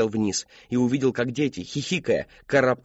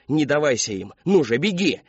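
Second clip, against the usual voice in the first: urgent; 2 semitones higher than usual. Acted. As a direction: urge him to run. Urging him to flee.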